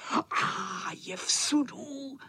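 vysoce, pomalu a škádlivě; vysmívat se z sudu; posměšně. Acted. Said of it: "Posmívalo se to". (ozvěna se posmívá klukům, posměšně)

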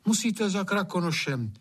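high, earnest advice; urging Anče. Acted. Anče advising Hajný to go to Krakonoš. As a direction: urge him to seek Krakonoš.

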